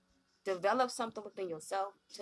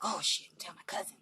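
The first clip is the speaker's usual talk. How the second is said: scared whisper. Retold or imitated. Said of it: "It's like".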